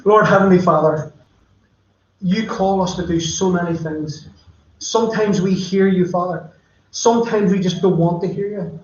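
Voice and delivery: earnest pastoral prayer voice, unhurried; closing prayer. Acted. Pastor closing the service praying for viewers, earnest prayer. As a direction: pray over the congregation, sincerely.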